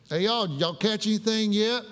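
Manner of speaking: a light Appalachian holler from shore; McDowell County talk. Retold or imitated. Jesus calling to fishermen in Appalachian dialect. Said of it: "speaking from McDowell County language".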